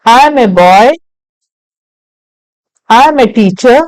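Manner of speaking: each short sentence read out clearly with a rising end; patient teacher reading example lines; slow drill reading. Shown as a demonstration. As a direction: model sentences for the class to repeat. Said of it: "So I'll read once again".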